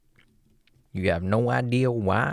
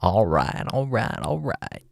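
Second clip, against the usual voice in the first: Matthew McConaughey. Retold or imitated. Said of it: "Matthew McConaughey?".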